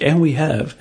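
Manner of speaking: mock a podcast host introducing the guest; a hint of staged podcast welcome; imitated podcast host. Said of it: "they're like".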